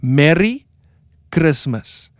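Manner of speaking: "Merry Christmas" with a rolled R, Cape Town style; Cape Town accent. Shown as a demonstration. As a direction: roll the R in "Christmas".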